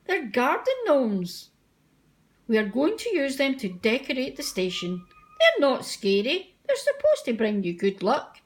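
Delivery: reassuring Fat Controller. Acted. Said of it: "smiled the Fat Controller".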